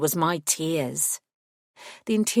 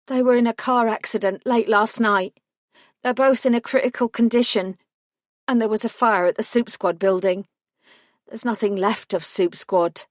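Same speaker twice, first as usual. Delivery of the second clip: shaky; 5 semitones higher, 4 dB louder than usual. A narrator's reading. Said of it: "My next words were shaky".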